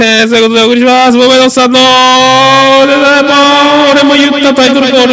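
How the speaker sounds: very high, loud announcer falsetto; falsetto title call. Acted.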